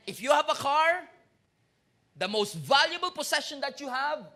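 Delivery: a loud, rousing sermon push; full-force preaching. Acted. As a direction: preach it to the whole church.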